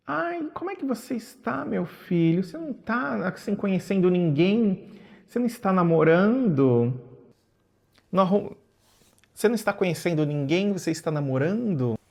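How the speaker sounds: a hint of a mother prying sweetly; lightly voiced mother. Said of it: "aí ela me fala, me pergunta".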